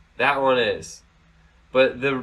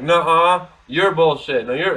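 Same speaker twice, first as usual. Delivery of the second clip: put-on childish retort; 3 semitones higher, 5 dB louder than usual.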